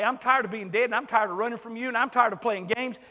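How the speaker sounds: voicing a listener's fervent confession; earnest prayer. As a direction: pour it out to God. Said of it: "come to God and say".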